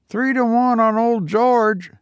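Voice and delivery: high, eager London stable lad; cockney boy. A narrator's reading. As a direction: chirp it like a young ostler. Ostler boy.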